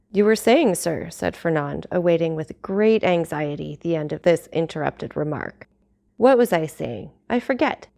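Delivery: measured storytelling read with character voices; audiobook narration. A narrator's reading. Vlogger reading Dumas chapter to her audience, steady narration. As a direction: read the classic chapter aloud to listeners. Reads novel aloud.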